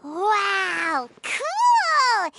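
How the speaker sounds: excited. Acted. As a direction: blurt it out thrilled. Kid thrilled by thief story.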